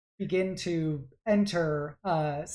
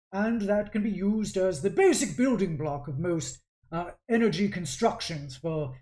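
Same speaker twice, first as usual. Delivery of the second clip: louder, emphatic mentor voice; lecturing artificer father; 3 semitones higher, 4 dB louder than usual. Acted. Father explaining disassembly to his daughter, matter-of-fact lecturing. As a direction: explain it like an assured expert. Game master plays the father.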